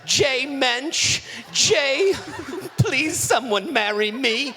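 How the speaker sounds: slow, mournful Jewish mother; sad Jewish mother voice. Acted. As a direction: lament it like a weary Jewish mom. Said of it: "let me do my sad Jewish mother voice".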